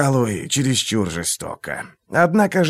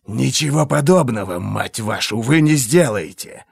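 hissed. Acted. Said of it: "прошипел Глокта".

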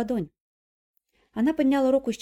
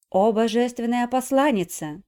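slow, loud, reverent address; lightly voiced devout old priest; 3 semitones higher, 6 dB louder, slower than usual. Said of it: "обратился к ней священнослужитель". (благоговейно)

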